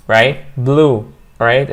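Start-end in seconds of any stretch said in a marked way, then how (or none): 0.6-0.9 "blue" met een lange oe-klank; long oo. Shown as a demonstration. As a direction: rek de oe in "blue". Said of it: "It's a long vowel".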